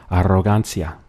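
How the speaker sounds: Arrogancia with a trilled double R; rolled double R. Shown as a demonstration. Teacher demonstrating the rolled R in Arrogancia. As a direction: roll the RR in Arrogancia. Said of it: "roll your tongue on the double R".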